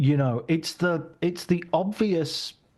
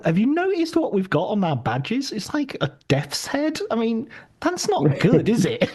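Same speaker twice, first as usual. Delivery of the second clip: raised, fretful voice wondering aloud; mock worried Nazi; 6 semitones higher, 3 dB louder than usual. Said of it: "it's kind of saying".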